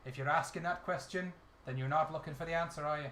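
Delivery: lighter Irish brogue, settling down; Hollywood Irish. Acted. Irish character apologetically refusing the lads, mild Hollywood Irish. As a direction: let the Irish lilt ease off. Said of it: "This is what I call Hollywood Irish".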